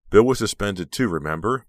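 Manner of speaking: emphatic, pointed interruption; interrupting. A narrator's reading. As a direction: break in forcefully with a reminder. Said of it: "Becca interrupted".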